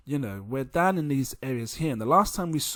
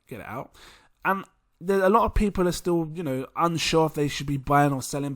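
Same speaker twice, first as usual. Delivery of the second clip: ordinary delivery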